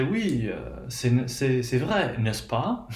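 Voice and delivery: French with "n'est-ce pas" rising at the end; old-school French speaker checking with a rising "n'est-ce pas"; questioning tag. Shown as a demonstration. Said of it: "Notice you have rising intonation".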